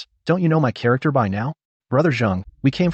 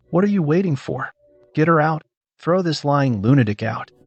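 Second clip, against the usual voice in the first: sharp, raised commands to throw her out; angry orders; 3 semitones higher than usual. Acted. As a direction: bark at the staff to get her out. Boss orders staff to remove her.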